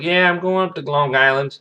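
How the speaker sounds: put-on high, loud valley girl voice; breezy California prep; mock Beverly Hills girl, high and bright; preppy Beverly Hills voice. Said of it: "your California preppy Beverly Hills voice".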